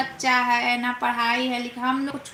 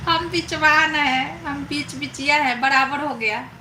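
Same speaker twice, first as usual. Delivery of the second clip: mock husband voice. Mimicking Roshni's husband, laughing.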